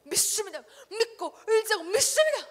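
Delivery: loud, high tearful chant; mock fervent prayer. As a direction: wail it like a weeping believer. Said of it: "하면서 막". (울먹이며 크게 외치는 기도 흉내)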